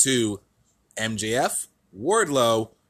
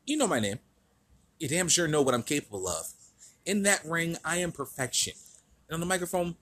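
smug wrestling promo voice; cocky heel promo, lightly voiced; MJF impression; 3 semitones higher than usual. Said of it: "Let's get into the promo that he cut".

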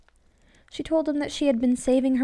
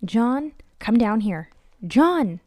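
frightened wife yelling up to her husband; yelling upstairs; 2 semitones higher, 8 dB louder, much slower than usual. Acted. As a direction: call him down, then shout his name. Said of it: "She yelled up to him".

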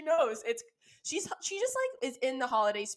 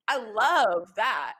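drawn out slowly; slow, savoring; much slower than usual. Shown as a demonstration. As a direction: savor each word slowly. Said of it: "And I love that".

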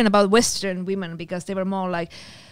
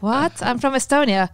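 mild surprise; 3 semitones higher than usual. Retold or imitated. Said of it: "I was like".

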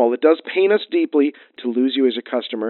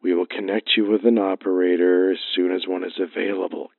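lower, distant phone recording; like a canned line through the receiver; recorded hold message; 8 semitones lower than usual. Acted.

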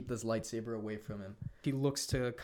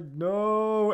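higher, louder mock cry; anguished cry; 9 semitones higher, 9 dB louder than usual. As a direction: shout no in grief. Kylo sees Luke die.

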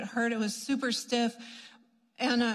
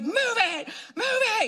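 loud command; 10 semitones higher, 3 dB louder than usual. Retold or imitated. Ex-prisoner praying over foot.

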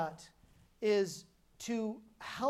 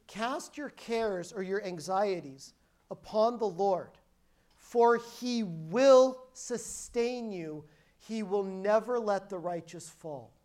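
scripture recitation; slower than usual. Shown as a demonstration. Quoting Psalm fifty-five to the congregation, slow and weighty. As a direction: read the verse like a declaration.

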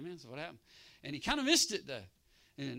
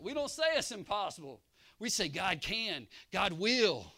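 full-force preaching; 7 semitones higher, 13 dB louder than usual. Acted. Preacher roaring the promise to the congregation, full force. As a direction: preach it to the rafters.

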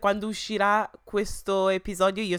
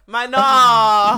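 surprised; 4 semitones higher, 14 dB louder than usual. Real, not acted. Disbelief at pronunciation.

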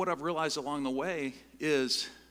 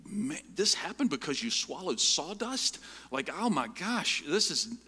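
higher, louder mock disbelief; incredulous; 6 semitones higher, 6 dB louder than usual. Speaker baffled by a stranger's strange reply, loudly incredulous. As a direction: play up the astonishment.

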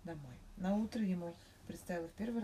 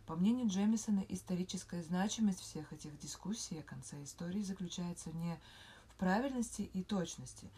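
hushed bedtime reading of theory; 3 dB louder than usual. Real, not acted. Reads an academic article in a whisper. (тихое чтение статьи на ночь)

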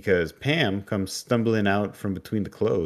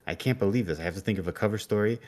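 panicked; 3 semitones higher than usual. Retold or imitated. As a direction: fret aloud in a mock panic. Amy panicking after losing Pam.

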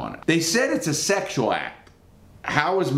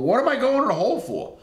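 high, quick, indignant question; baffled protest; 11 semitones higher, faster than usual. Retold or imitated. Inmate asking why he's going to the hole, retold baffled protest. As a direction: re-enact a puzzled protest, pitched way up.

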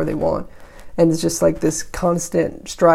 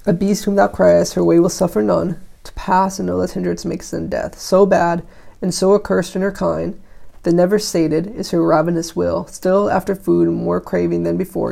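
put-on measured recitation of old verse; declaimed lightly, pausing between phrases; verse reading. A narrator's reading. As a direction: read the poem out with firm phrase openings. Reads the poem aloud.

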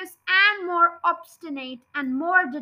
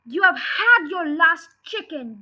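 a louder jeering threat; yelled; 2 semitones higher, 5 dB louder than usual. Acted. Farmer yelling a threat down at the fox, loud. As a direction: jeer it at the fox below. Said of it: "yelled Bogus".

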